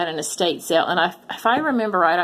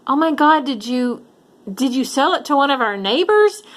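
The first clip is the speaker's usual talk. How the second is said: alarmed; 6 semitones higher than usual. Retold or imitated. Guessing where pumpkin went.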